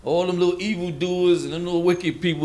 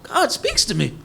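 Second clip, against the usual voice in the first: a hammed-up holier-than-thou voice climbing in pitch; mock holier-than-thou. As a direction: puff up like someone sure God talks only to him. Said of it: "That's when they say".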